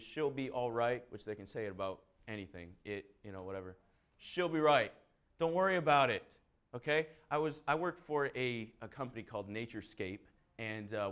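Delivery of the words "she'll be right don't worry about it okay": louder, carefree Aussie-style shrug; breezy reassurance. Retold or imitated. Preacher mimicking Australians: carefree shrug. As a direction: toss it off like nothing matters.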